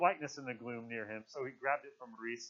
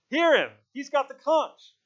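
loud, high demand for order; shouting; 13 semitones higher, 13 dB louder, slower than usual. A narrator's reading. Ralph defends Simon's turn with the conch, shouting. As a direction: shout it out, stretching the last words. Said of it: "Ralph shouted".

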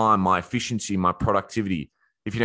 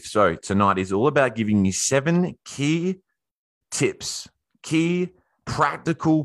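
slightly winded while talking; short of breath, pushing through; 5 semitones higher than usual. Real, not acted. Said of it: "I'm out of breath here".

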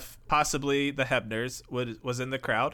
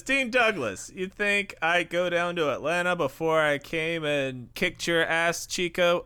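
put-on Cuban accent; 4 semitones higher than usual. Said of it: "he says".

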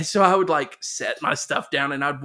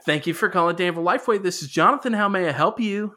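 quick, slightly raised phone greeting; very peppy; 3 semitones higher, faster than usual. Retold or imitated. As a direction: rattle off a perky store greeting. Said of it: "Like, very peppy".

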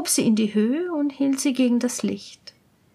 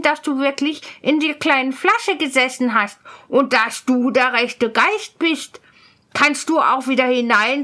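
cool-headed student; 2 semitones higher, 3 dB louder than usual. Acted. Student daring spirit back into bottle, challenging. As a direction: dare the spirit to prove itself.

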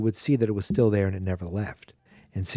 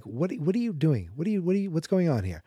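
higher-pitched imitation of a flustered questioner; mock bewilderment; 6 semitones higher than usual. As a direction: retell it as stammered, baffled questions. Exasperated Laurie quote in retelling.

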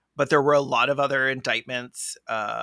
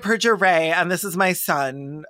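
put-on proud parent introducing kids; 2 semitones higher than usual. Parent introducing her children at a party, laughing mock pride. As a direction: present your children with a straight-faced pride. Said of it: "I'm like".

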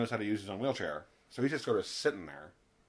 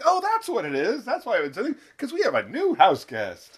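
mock smug housemates; 11 semitones higher, 9 dB louder than usual. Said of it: "and they're like".

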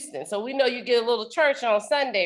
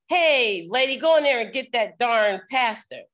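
slightly raised mock-bossy voice; imitated brusque demand. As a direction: play a rude man ordering the secretary around. Rude man orders the secretary in joke.

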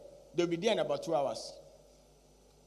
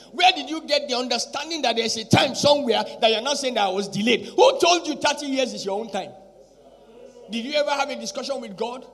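loud, higher-pitched challenge from the pulpit; full-force preaching; 5 semitones higher, 8 dB louder than usual. Acted. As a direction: fire rhetorical questions at the congregation.

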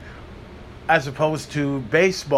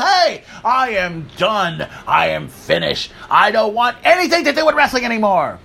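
mock quitting fan; 3 semitones higher than usual. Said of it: "telling the world".

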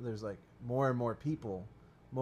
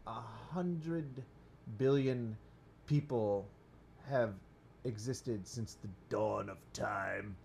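ponderous voice; slower than usual. Pretend. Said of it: "I don't do it in that voice".

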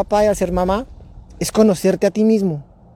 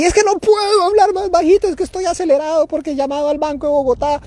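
stressed and rushed; 9 semitones higher than usual. Retold or imitated. His rushed stressed reply.

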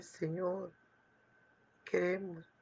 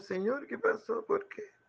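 higher, sharp rising "why?"; shocked question; 5 semitones higher than usual. Acted. A man who finds his ruined mansion asks the Lord why, shocked. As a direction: blurt out the why in disbelief.

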